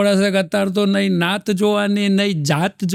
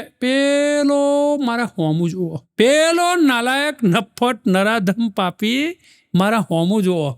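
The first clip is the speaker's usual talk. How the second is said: complaining wife; 3 semitones higher, slower than usual. Retold or imitated. Wife complains to husband about a staring man, slow and indignant. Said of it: "પતિને શું કે".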